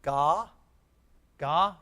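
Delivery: Ga said alone and stressed; syllable by syllable. Shown as a demonstration. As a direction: model the first syllable Ga slowly. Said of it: "let's read it in two syllables".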